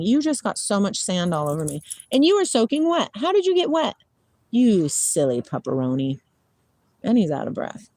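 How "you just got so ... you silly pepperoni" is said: talking to a dog. Real, not acted. Scolding wet, sandy dog.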